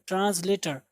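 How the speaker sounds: "ट्रांसलेटर" with a light z before the l; correct z-sound demo. Shown as a demonstration. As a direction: say "ट्रांसलेटर" as tranz-later. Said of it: "British, दोनों में ट्रांसलेटर".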